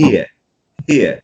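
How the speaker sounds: here gliding from E into a relaxed schwa; ear diphthong. Shown as a demonstration. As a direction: stretch here from E to uh. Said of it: "It's like".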